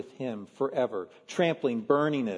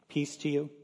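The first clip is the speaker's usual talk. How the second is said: calm greeting; 5 dB quieter than usual. Pretend. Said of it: "would you have just calmly appeared and said".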